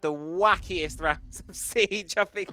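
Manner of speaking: loud, drawn-out astonished exclamation; baffled. Real, not acted. Caster reacting to a wacky round, loudly baffled. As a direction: stretch it out in real disbelief. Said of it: "I'm baffled".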